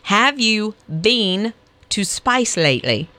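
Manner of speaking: slow, spaced-out teaching of an Australian accent; careful, drawn-out Australian accent lesson; Australian accent demo. Shown as a demonstration. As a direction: demonstrate Australian vowels word by word. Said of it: "how to do an Australian accent".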